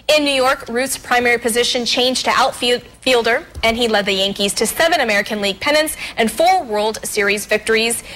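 measured, evenly paced presenter read; news feature read. Real, not acted. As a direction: read it out like a TV history segment. Reads a history segment.

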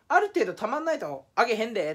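lightly put-on fake Kansai accent; fake Kansai dialect. Quoting YouTube's rules in fake Kansai dialect. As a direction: toss it off in mock Kansai dialect. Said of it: "エセ関西弁許して".

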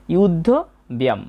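"যুদ্ধ ব্যায়াম" with pause, closing on m; half-m ending. Shown as a demonstration. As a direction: end "ব্যায়াম" on a short m, no vowel. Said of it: "মটাকে অর্ধেক উচ্চারণ করব".

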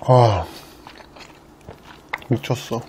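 talking while chewing noodles; muffled through full mouth. Real, not acted. Seen 0: Cheeks bulge, mouth closed chewing noodles just slurped; talks through food.

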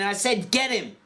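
yell. A narrator's reading. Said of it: "George yelled again".

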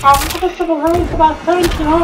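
Elmo voice. Pretend. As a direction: stay in the cheerful Elmo voice. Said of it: "I can't even stop now".

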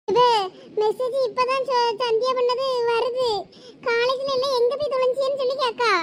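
put-on girl starting to cry over sister's message; tearful. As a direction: choke up while reading the message. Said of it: "அழாத சோனி".

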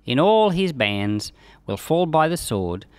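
measured, solemn reading of scripture. Acted. Teacher reading Ezekiel aloud to the class, solemn reading voice. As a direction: read the prophecy aloud with weight.

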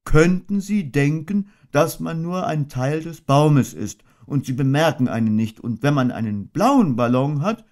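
a gentle, ponderous little bear thinking aloud; Winnie the Pooh voice. A narrator's reading. Pooh explains his balloon plan.

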